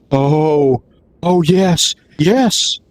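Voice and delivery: rising, excited mock glee; delighted. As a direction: retell his joy as it grows, lightly. Buyer delighted on phone call.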